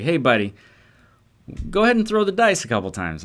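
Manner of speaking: breezy Chicago friend urging; Chicago friend inviting a throw at the craps table, a light accent. Retold or imitated. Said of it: "he's from Chicago originally".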